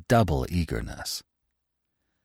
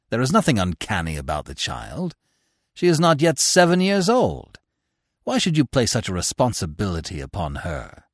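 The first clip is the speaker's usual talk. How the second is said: lightly voiced stern author; 3 semitones higher, 4 dB louder than usual. Orth answers the mother coolly, a touch stern. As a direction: keep him dry and detached. Orth's sharp retort.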